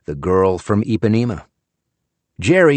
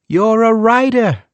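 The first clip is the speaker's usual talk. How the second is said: put-on old man's correction; 7 dB louder than usual. A narrator's reading. Old husband correcting wife.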